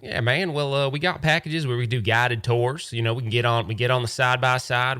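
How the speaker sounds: a hint of a laid-back desert local; easygoing salesman pitch, lightly voiced; Arizonan tour guy. Guide lists tour packages to the caller, lightly voiced and laid-back. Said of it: "very Arizonan".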